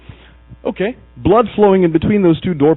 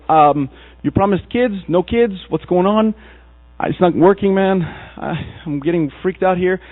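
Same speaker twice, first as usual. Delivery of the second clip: lightly acted Abram, higher-pitched protest; mock fretting, pitched up; anxious complaint; 4 semitones higher, slower than usual. Man protesting to God about promised kids, mildly fretful.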